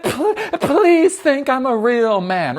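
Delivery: very high, slow pleading squeal with a laugh; mock begging Trump. Mocking Trump begging Netanyahu, high laughing plea. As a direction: ham up a groveling plea.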